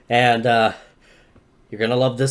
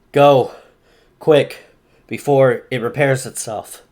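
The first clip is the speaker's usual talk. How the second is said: tired, hoarse and urgent. Acted. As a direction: rasp it out, worn out. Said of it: "with a hoarse voice".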